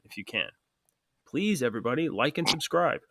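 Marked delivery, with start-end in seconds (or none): 1.3-3.0 sincere. Shown as a demonstration. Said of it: "deliver this with sincerity and excitement".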